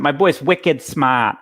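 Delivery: a light, slowed Boston accent; lightly done Boston accent on wicked smart. Shown as a demonstration. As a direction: ease into a touch of Boston accent. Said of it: "I'll do my accent".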